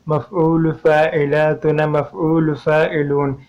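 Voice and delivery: slow, syllable-by-syllable verse recitation; measured scansion. Shown as a demonstration. Teacher showing students the verse's metre, slow measured scansion. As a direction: draw out each metrical unit evenly. Reciting the full metrical pattern.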